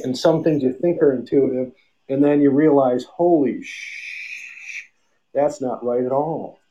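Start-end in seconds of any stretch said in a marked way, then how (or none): 3.0-4.8 breathy, drawn-out whispered gasp of shock; whispered realization. Retold or imitated. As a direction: let the curse slip out as a slow whisper. Sudden realization mid-story.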